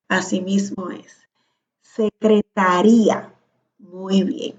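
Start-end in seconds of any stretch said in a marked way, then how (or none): 1.8-3.3 "Secretaría" spaced out, stressed on RÍ; accented secretaría. Shown as a demonstration. Teacher confirms student's example, "Secretaría" stressed on RÍ. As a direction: dwell on the I of "Secretaría". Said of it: "si lleva acento".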